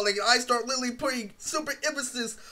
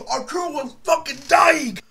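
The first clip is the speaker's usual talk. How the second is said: raised, punchy exclamation; emphatic retelling; 4 semitones higher, 3 dB louder than usual. Retold or imitated. Telling how Arturo was struggling, raised emphatic voice. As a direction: push it higher, hammed-up. Retells a friend dying laughing.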